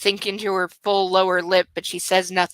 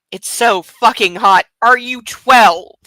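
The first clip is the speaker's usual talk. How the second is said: mock breathless read; 3 semitones higher, 7 dB louder, slower than usual. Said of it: "that's hot if you are twelve".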